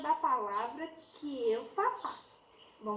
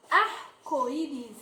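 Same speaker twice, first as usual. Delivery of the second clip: slow sounding out; 2 semitones lower, much slower than usual. Shown as a demonstration. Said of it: "teacher drawing out word".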